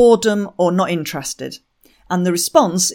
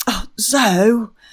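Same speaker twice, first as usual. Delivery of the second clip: mock scolding tone, higher; 3 semitones higher than usual. Quoting how a stressed woman says the speaker's name: mock scolding tone. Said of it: "when she says that in that kind of tone".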